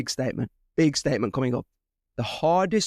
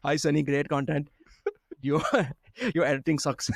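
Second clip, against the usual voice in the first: imitated Indian accent, breaking into a laugh. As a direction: read it out in a light mock Indian accent. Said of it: "literally how they say it".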